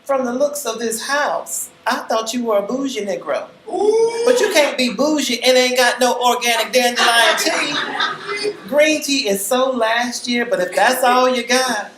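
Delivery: put-on high, loud haughty older woman; arrogant. A narrator's reading. Visitor mocking the host's tea, high, loud and arrogant. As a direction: look down on him, high and loud. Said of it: "stunningly arrogant".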